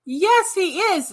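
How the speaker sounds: slow, high, knowing agreement; oh he absolutely is; emphatic. Real, not acted. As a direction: drag it out knowingly.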